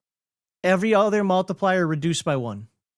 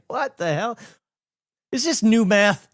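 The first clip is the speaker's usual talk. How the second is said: higher-pitched mock bewilderment; baffled crowd; 5 semitones higher than usual. Host mimics everybody confused by the math, mock bewildered. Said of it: "now everybody's like".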